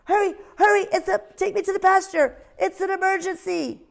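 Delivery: a tiny owl pretending there's an emergency; little owl's alarm. Ozzie urging the sheepdog.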